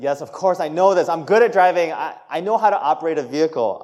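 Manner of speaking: mildly imitated teen defensiveness; know-it-all teen. Teen assuring mom about driving, mock know-it-all. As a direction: insist you know it all, like a teenager. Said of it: "the thing that teenagers all do".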